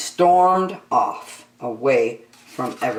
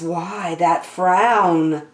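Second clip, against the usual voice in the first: snake; 2 semitones higher, much slower than usual. Acted. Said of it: "said Snake".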